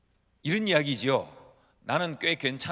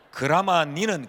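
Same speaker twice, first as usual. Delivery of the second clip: Gyeongsang dialect; 5 dB louder, slower than usual. Retold or imitated. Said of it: "알아들으십니까?".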